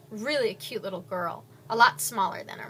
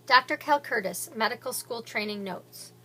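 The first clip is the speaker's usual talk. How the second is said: doctor's notes read; 3 dB louder than usual. Acted. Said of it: "you'll hear me in the beginning of every chapter".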